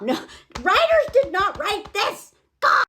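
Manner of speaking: high, slow incredulous laughing outburst; laughing disbelief. Real, not acted. Reviewer rejecting the film's dialogue, laughing in disbelief. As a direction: laugh through the emphatic protest.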